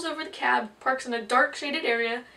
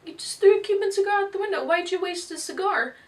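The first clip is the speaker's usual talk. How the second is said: high, loud outraged shout; indignant American; 8 semitones higher, 6 dB louder than usual. Acted. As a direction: call him out, shocked and loud. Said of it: "The American's like".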